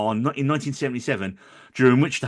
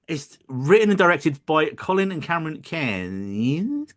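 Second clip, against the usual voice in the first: Aussie accent; slower than usual. Shown as a demonstration. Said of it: "go into my terrible little Aussie accent".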